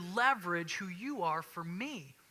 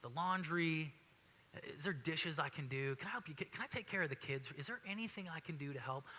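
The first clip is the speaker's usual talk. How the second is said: gentle to wife; 3 semitones lower, 6 dB quieter than usual. Retold or imitated. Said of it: "you go".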